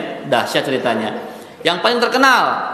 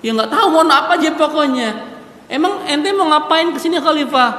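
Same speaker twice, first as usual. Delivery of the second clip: flustered babble; 6 semitones higher, faster than usual. Acted. Flustered mother continues.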